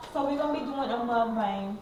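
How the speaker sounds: put-on white girl voice. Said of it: "Why are you talking like that?".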